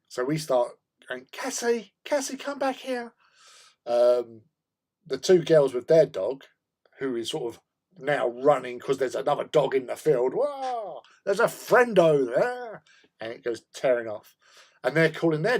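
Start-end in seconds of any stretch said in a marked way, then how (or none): 1.3-3.1 high, carrying call across the park. Retold or imitated. Calling the dog back. 10.3-12.8 dog's voice. Retold or imitated. Voicing the excited dog.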